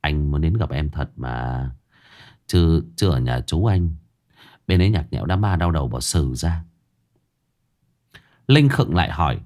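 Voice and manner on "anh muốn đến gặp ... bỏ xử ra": mock whimper. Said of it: "Tôi mếu máo".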